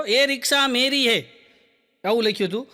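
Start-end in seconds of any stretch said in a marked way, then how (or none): 0.0-1.3 dramatic slogan reading. Retold or imitated. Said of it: "સાંભળજો".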